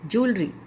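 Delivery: ज्वेलरी said "JOOL-ree"; two beats for ज्वेलरी, joo then ree; "joo" sound. Shown as a demonstration. Teacher drilling the word for students, "JOOL-ree". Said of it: "जू की आवाज़ आती है".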